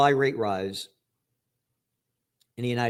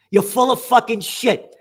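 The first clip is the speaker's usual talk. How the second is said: slow, furious repeat; furious rebuke of the journalist, drawn out; angry, slower and harder; 5 semitones higher, 5 dB louder than usual. Real, not acted. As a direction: hammer each word the second time. Berating the journalist.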